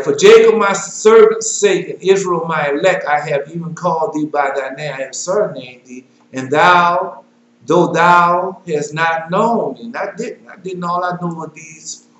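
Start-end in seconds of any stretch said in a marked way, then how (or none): 0.0-9.8 solemn scripture reading. Acted. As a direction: proclaim the verses like a preacher. Preacher reads scripture aloud.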